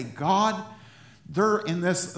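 pleading prayer voice; intercessory plea. Acted. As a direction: call on God urgently.

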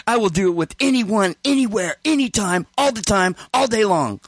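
proud, insistent proclamation; brazen boasting. Retold or imitated. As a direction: imitate a shameless friend declaring himself. Friend's brazen emphatic declaration.

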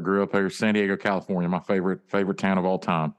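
Southern drawl of a famous singer. Acted. Telling friends he knows who he is, in a famous singer's drawl. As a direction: assert it in a famous singer's Southern drawl. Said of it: "what's with the voice?".

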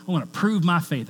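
lightly put-on country accent; a touch of mock country accent. Preacher imitating snake-handling churchgoers proving their faith, light country accent. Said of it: "I'm using a country accent".

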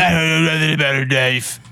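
put-on mock holler; yelling woman. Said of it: "she's yelling the whole time".

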